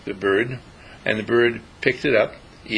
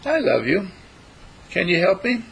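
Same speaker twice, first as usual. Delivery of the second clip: beguiling little bird; 8 semitones higher than usual. Acted. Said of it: "looked up with such beguiling eyes".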